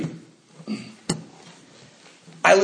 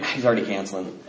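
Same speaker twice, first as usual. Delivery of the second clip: glum inner voice; 8 semitones lower, 7 dB quieter, faster than usual. Retold or imitated. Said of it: "I'm, like, thinking".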